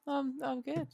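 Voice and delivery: soft, subdued reply; low energy. Real, not acted. Tired co-host answering the host's hello, subdued and low-energy. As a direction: answer quietly with little energy. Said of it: "you're not bringing the energy".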